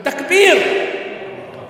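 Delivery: loud high takbir call. Real, not acted. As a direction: call the crowd to answer. Calling crowd to cheer.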